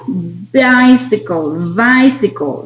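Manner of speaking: "Bicycle" drawn out slowly, stressing the B consonant start; slow demo word. Shown as a demonstration. Teacher slowly models "Bicycle" for the class. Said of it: "¿cómo es el sonido?".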